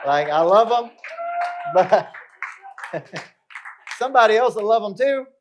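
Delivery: loud, high, laughing through the words. Real, not acted. Coach jokes to audience about leaving the kids, loud laughing delivery. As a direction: crack yourself up at your own punchline.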